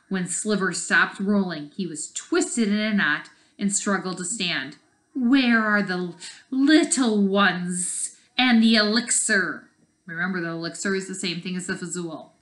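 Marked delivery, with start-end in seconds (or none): 5.1-9.7 slow, menacing snaky question; lightly voiced snake; snake villain. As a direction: draw it out like a hissing snake.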